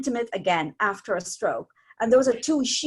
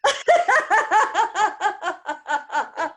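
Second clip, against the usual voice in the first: high, loud startled oh; imitating a startled stranger; surprised oh; 8 semitones higher, 5 dB louder than usual. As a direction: caught off guard, embarrassed. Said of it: "He goes".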